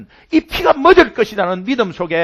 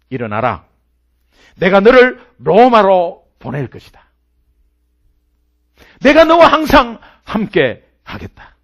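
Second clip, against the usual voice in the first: proclaiming Jesus' words; 5 dB louder than usual. Acted. Preacher voicing Jesus' charge to Paul.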